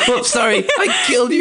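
very high squealed imitation, laughing; mock apology. Host voicing dad's subtext, high mock apology. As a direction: squeal it as a comic panicked dad.

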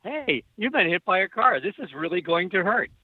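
mock-calm, measured voice in the head; calm inner voice. Crash victim quoting his own mind mid-fall, calmly understated. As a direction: imitate a calm little voice stating trouble. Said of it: "this wonderful, calm voice".

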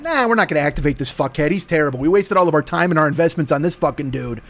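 lightly voiced low scoffing spymaster; bored handlers. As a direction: shrug it off as a disappointed handler. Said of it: "the Manchurians went".

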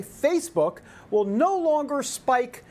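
slow, emphatic news headline, starting high; headline read. Acted. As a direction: stretch it out like a big announcement. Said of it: "Just the News headline".

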